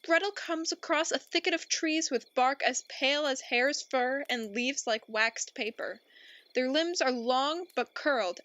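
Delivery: grave, dramatic fairy-tale narration; storybook narrator building dread; dark story narration. Acted. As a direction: spin it like an ominous bedtime tale.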